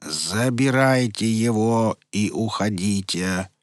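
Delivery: slow, rumbling stone creature voice; rumbling gargoyle. Acted. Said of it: "пророкотала горгулья".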